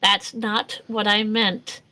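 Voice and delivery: slow, deliberate correction; measured protest. Acted. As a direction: space the words out to insist. Repeats the protest slowly.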